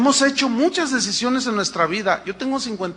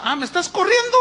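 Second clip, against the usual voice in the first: higher, indignant comeback; proud retort; 8 semitones higher than usual. Acted. Wife answers the husband who told her to leave, proud retort. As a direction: answer back, too proud to give in. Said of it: "la otra también bien orgullosa".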